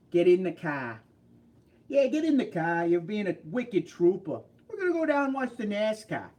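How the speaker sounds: put-on broad Boston accent with dropped r's; mock Boston accent. Imitating local car talk, mock Boston accent. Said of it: "That Boston accent".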